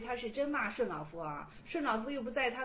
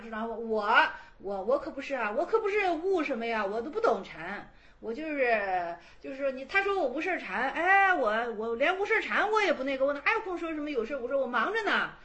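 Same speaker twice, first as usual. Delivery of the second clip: a lightly voiced carefree old monk, louder and busy; old master's reply; 3 dB louder than usual. Old master waves off Shi Shuangyong with breezy, louder chatter. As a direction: brush the question off like a busy old man. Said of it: "是对石双勇说的".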